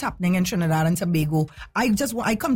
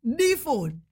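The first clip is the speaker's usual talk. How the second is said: mock shocked; 9 semitones higher, much slower than usual. Real, not acted. Dramatic stop on the message.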